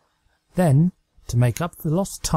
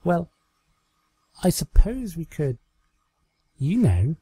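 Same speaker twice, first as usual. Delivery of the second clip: higher, hesitant and coy; coy Trixie; 6 semitones higher than usual. Acted. Trixie hinting to her doll, higher and coyly hesitant. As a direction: trail off shyly, hinting.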